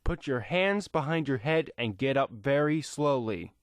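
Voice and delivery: stern officer. Acted. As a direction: give the order slowly, in control. Pursuer ordering him at gunpoint.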